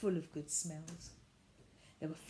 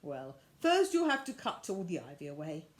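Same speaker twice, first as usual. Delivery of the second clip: lower, louder man's voice; a lightly voiced gentle old man; gruff old man; 4 semitones lower, 6 dB louder than usual. Old gardener telling Miss Biscuit the job, lower voice.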